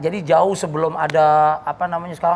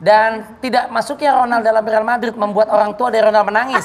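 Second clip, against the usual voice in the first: football commentator. Pretend. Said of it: "ala-ala komentator bola".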